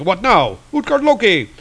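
high, theatrical call to the foe; hero's challenge. Acted. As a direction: challenge the villain in comic-book style. Hero calls out to the villain.

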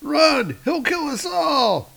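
cartoonish screaming circus folk; panicked fleeing. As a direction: squeal in hammed-up terror. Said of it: "they're like".

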